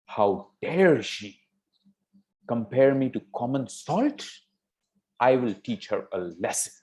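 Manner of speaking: understated indignation, punched DARE; very furious. Acted. King vowing to punish his daughter, mildly furious. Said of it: "the king got very furious".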